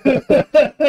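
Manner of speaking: big high burst of laughter; loud laugh. Real, not acted. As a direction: laugh out loud at his own story. Laughing at the story. (gargalhada alta)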